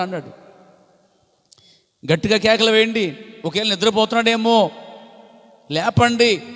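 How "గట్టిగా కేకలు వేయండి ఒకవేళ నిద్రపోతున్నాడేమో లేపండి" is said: a touch of Elijah's teasing scorn; mock taunt. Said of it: "అపహారం చేస్తున్నాడు, హేళన చేస్తున్నాడు". (ఎగతాళిగా అరవమని చెప్పడం)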